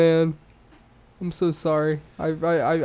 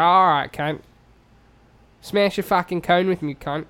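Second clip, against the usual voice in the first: put-on New Zealand accent with hesitant pauses. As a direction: do a comic New Zealander, searching for words. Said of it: "say it in a New Zealand accent".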